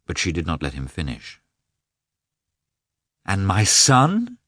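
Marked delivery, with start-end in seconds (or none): 3.3-4.4 high, slow, loud cry; exclaiming. A narrator's reading. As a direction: cry it out slowly. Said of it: "she exclaimed".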